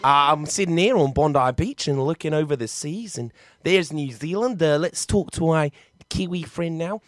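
put-on Aussie accent; Australian accent. Shown as a demonstration. Host sitting on Bondi Beach, imitated Australian accent. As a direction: play a matey Australian. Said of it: "start with Australian".

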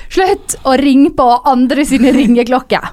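drawn-out mild mock yell, in own dialect; retold scream. Telling off night-time ringers over the intercom, retold as a mild yell. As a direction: scold the bell-ringers with slow, half-hearted shouting.

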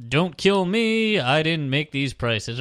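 lightly voiced bartender's patter. Bartender excusing the prices to customers, lightly acted patter. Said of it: "they have patter, too. They're like".

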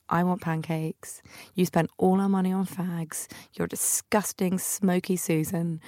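seething quietly at her sister; cross. Retold or imitated. Furious at sister for spending money on cigarettes, slow soft seething. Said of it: "so cross with her".

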